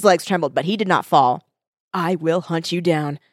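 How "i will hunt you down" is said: vow. Acted. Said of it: "William vowed".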